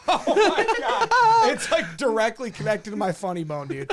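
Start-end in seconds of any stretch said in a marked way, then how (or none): 0.1-1.5 high, slow hammed-up hybrid voice; Joe Exotic Trump hybrid. Imitating a podcaster's Trump hybrid, high and slow. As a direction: stretch it high and silly. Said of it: "He's like".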